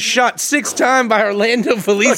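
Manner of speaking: hammed-up announcer reading a mock headline; mock news headline. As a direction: announce it like an absurd breaking story. Mock headline about the story.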